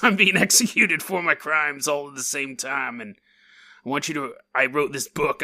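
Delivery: lightly put-on old-timey dying man. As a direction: play a condemned 1830s outlaw, lightly. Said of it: "That's why I'm doing an old-timey voice".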